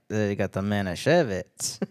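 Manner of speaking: put-on a light Yiddish accent, slow, with a V in Manischewitz; half-hearted Yiddish accent, Manischewitz said with a V; mock Yiddish accent. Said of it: "I don't know if I should do that accent".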